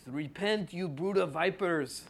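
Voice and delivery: a better go at the Scottish preacher; Scottish accent. Retold or imitated. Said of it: "did that sound better".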